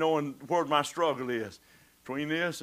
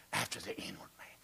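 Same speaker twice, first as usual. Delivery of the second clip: whisper; 8 semitones lower, 13 dB quieter than usual. Acted. Preacher whispering the verse to his listeners. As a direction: drop to a whisper on the confession.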